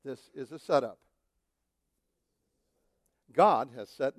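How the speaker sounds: slow call-and-response words for the church to echo; measured prayerful recital; slow congregational repeat. Shown as a demonstration. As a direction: lead them line by line, slowly. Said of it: "I want you to repeat these words".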